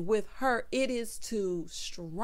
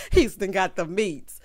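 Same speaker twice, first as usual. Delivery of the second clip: mocking repeat; 6 dB louder than usual.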